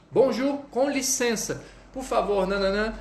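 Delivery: teacher showing a polite approach; polite French opener. Shown as a demonstration. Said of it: "Você".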